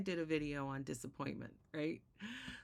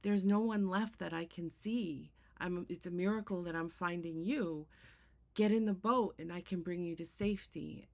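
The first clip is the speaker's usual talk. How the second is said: calling out; 2 semitones higher, 4 dB louder than usual. Retold or imitated. Rowboat rescuer calling to man.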